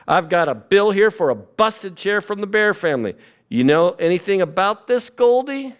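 a hint of a stern mom, rising high on the name; lightly voiced mother confronting her daughter; suspicious mother. A mother confronting her daughter about a broken chair, mildly stern mom voice. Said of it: "how about Goldilocks' mother?".

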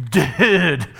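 lightly voiced surfer chick; a hint of a valley girl drawl; mocking surfer girl. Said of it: "They go, like".

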